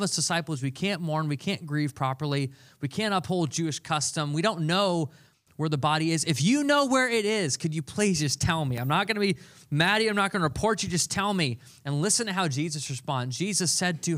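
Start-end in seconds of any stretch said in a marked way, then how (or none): 6.2-11.6 higher, hurried plea; pleading. Retold or imitated. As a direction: beg him to just tell her. Mary pleading with the gardener.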